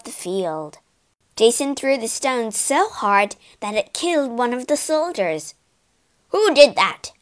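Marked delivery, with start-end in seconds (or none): 6.3-7.1 loud startled shout; yelled. Acted. Soldiers yelling after a stone kills one. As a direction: yell out, demanding who threw it. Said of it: "yelled the others".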